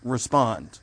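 Respond said alone, slow and falling; emphasized respond. Shown as a demonstration. Preacher stressing Respond to the congregation, firm and falling. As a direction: lean on Respond as the key word. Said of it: "I do emphasize the word respond".

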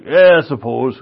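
lightly voiced gruff old Irish uncle; a hint of an unimpressed old Irishman; Patty. Old uncle answering his amazed nephew, lightly gruff indifference. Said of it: "Basically what he sounded like".

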